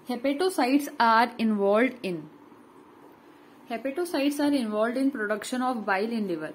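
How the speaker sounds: slow, deliberate reading of notes; slow dictation. Acted. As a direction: dictate each word so students can write. Reads note slowly twice. (धीरे-धीरे notes लिखवाना)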